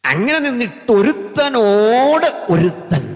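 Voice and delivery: loud, high, slow cry; full-force preaching. Real, not acted. Preacher telling how angels call to each other, full-force preaching.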